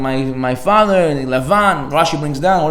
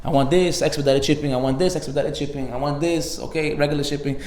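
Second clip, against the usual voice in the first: matter-of-fact, softer listing of orders; mock shopping list; 5 dB quieter than usual. Worshipper treating prayer as an Amazon order, listing it offhandedly. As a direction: tick items off like an online order. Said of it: "Amazon shopping list".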